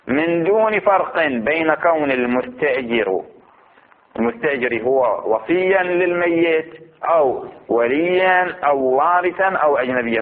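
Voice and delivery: slow, drawn-out reading of a legal text; deliberate scholarly recitation; measured text reading. Acted. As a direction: read the ruling out slowly, stretching the vowels.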